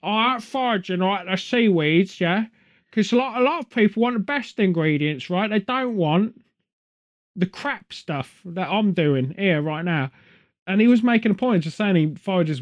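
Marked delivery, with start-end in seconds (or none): 0.0-10.1 lightly put-on soft Cockney, like a bad news dub-over. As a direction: dub the Norwegian chef in a mild Cockney voice. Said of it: "I'm gonna dub it for".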